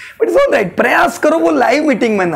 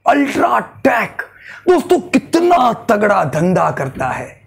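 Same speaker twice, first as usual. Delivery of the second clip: excited pitch. Shown as a demonstration. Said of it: "मैं बोलूंगा".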